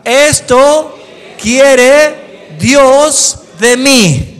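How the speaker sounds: "Esto" más agudo y muy fuerte, "quiere Dios de mí" muy lento; proclámalo fuerte y despacio; dicho fuerte. Shown as a demonstration. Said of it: "dígalo fuerte". (el predicador lo grita para que lo repitan)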